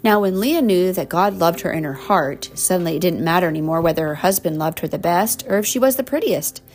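warm storybook reading; reading to children. Acted. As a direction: read it like a bedtime story. Reading picture book to child.

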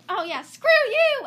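loud, high yell breaking into laughter; hammed-up angry send-off; mock defiant shout. Girl throwing the ball away, mock defiant shout. Acted brush-off of a character.

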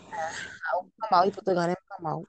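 fighting back real tears as she remembers; tearful. Real, not acted. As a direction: voice catching on the words. Reliving a traumatic memory.

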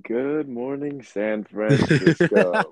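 slow, drawn-out announcer greeting; radio host voice. Pretend. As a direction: stretch it like a morning DJ. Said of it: "Is that a good impression?".

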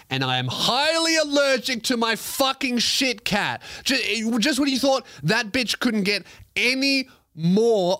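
high-pitched exasperated rant. Real, not acted. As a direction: rant about the cat, voice up. Ranting about his cat.

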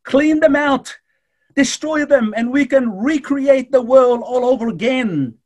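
loud, high mock outburst of wrath; preacher voices the destroying Jesus Christ did not choose, loud; imagined furious command. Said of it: "could have easily said to his father".

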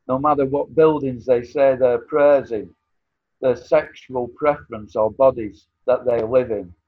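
measured, rhythmic spoken-word delivery; poem recitation. Acted. Recites his own poem.

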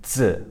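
"Z" said as a short dz with tongue pressed; pinyin Z. Shown as a demonstration. Teacher contrasting pinyin with the English buzz, "Z" as dz. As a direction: start "Z" on a held D, blend into z. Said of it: "it's a little bit different".

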